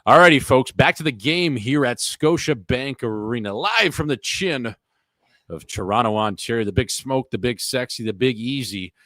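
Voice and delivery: hammed-up play-by-play voice; hockey announcer. Hockey broadcast host calling the game, mock announcer.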